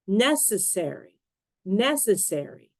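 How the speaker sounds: NECessary, stress on the first syllable; careful dictionary reading of "Necessary", leading with NEC; "necessary" repeated alike, first syllable strongest; word stress demo. Shown as a demonstration. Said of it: "stress on the right syllable".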